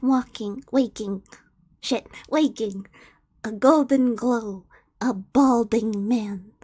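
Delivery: low, measured narrator's voice; story narration. A narrator's reading. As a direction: narrate softly, slowing towards the end. Reads fan fiction as narrator.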